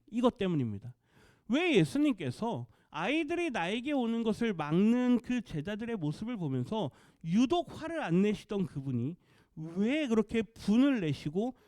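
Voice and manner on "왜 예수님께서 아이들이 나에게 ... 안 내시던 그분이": normal talking voice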